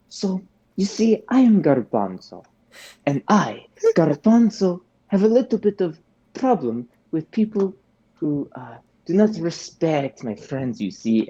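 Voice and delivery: lightly voiced Garbanzo threatening the gangster. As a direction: play the smug menacing Garbanzo, half-hearted. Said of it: "and I'm gonna go".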